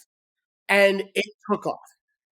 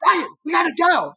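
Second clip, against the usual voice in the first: higher calling shout across the water; retold shout; 8 semitones higher, faster than usual. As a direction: call Ryan back to the boat. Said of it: "Matt starts going".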